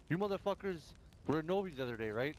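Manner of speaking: mock-furious accusation; retold angry confronting. Player retelling how he accosted a rival gang on the radio, heated. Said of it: "I was like".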